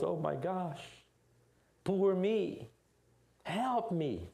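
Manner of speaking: high, self-pitying whine; whining victim. Retold or imitated. Junior whines in the victim position, high and self-pitying. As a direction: play the poor helpless victim. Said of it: "and he was".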